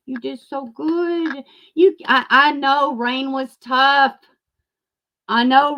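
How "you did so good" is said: slow syrupy sarcastic praise; mock praise. Sneering praise for Laura's coverage, slowly. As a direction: drag it out like fake applause.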